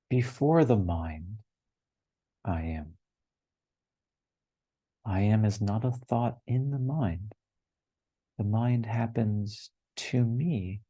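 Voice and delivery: slow, measured reading with long pauses; unhurried sacred reading, stretching the key words; contemplative recitation. Acted. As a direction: let each line of the teaching sink in. Reads the same text once more.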